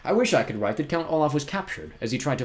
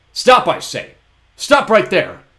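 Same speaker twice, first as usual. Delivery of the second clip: much higher, louder stern call; 10 semitones higher, 12 dB louder, much slower than usual. A narrator's reading. Poe calls after Olaf, shouting. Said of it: "called out again".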